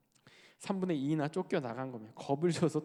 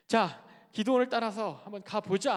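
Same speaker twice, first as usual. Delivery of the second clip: higher acted rallying call; 4 semitones higher, 4 dB louder than usual. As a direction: rouse the others to follow. 백성들이 기드온을 따라나서는 장면. (기세 좋게 선동하듯)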